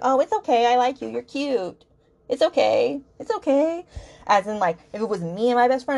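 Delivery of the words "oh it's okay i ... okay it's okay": higher, sing-song mock sweetness; mocking forgiving girlfriend. Reviewer mocks the heroine forgiving him, higher and sugary. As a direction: parody how easily she forgives him. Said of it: "she's like".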